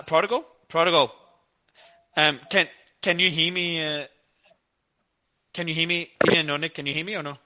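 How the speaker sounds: hollow voice like speaking into a tube; muffled tube sound on the line; through a tube. Real, not acted. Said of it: "you're talking into a tube".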